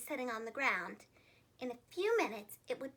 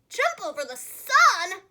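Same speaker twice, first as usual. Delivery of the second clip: slow, louder pig question; oinking pig; 4 semitones higher, 11 dB louder, slower than usual. A narrator's reading. Pig asking about jumping over the sun, slow and doubtful. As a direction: ask it slow like a startled pig. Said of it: "oinked the pig".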